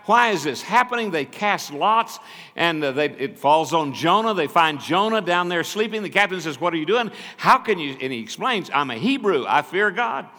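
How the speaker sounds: loud, high, driving preacher's retelling; full-force preaching. Acted. Preacher retelling Jonah to the congregation, full-force preaching. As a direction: preach it out big to the whole church.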